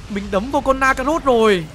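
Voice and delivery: ordinary delivery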